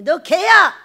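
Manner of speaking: sudden mock scolding shout; acted rebuke. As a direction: shout it as a blunt accusation.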